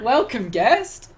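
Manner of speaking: slow, stiff, formal welcome; a hammed-up stiff host, slow. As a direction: greet like a stiff doll at the door. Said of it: "stand like Barbie dolls".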